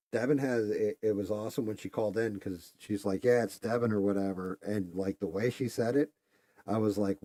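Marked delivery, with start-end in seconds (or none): 3.2-3.9 mock tough accent, higher and louder; a hint of Devin's brash regional accent; imitating Devin's accent. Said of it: "Devin's got a fuck you accent".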